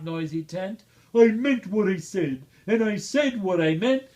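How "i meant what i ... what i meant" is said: firm, rising, louder vow of the elephant; Horton's faithful vow. A narrator's reading. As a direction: declare it proudly as Horton. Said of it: "but he said".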